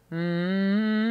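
humming with a bright forward buzz; forward placement hum. Shown as a demonstration. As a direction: hum placed right up at the front of the face. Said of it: "forward placement would be".

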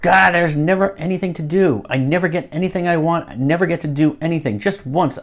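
ordinary delivery

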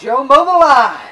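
loud, slow announcer-style call. Acted. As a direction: echo it like a ring announcer. Wordplay on the announced name.

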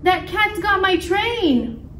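high, slow mock wail; hammed-up panicked engineer; distressed cry. A narrator's reading. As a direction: wail it out, drawn out. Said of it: "cried the engineer".

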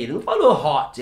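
"hot" with a rounded O, as he did not say it; round O, wrong. Retold or imitated. Teacher retelling a talk with an American man. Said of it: "Eu falei, peraí".

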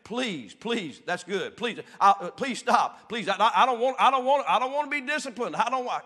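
hammed-up frantic pleading, high and loud; mock begging. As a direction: beg like a child about to be whipped. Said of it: "what really I was saying".

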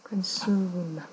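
"Consume" with a drawn-out oo vowel; u sound shown. Shown as a demonstration. Teacher pointing out the vowel, "Consume" with a long oo. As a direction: hold the u in "Consume".

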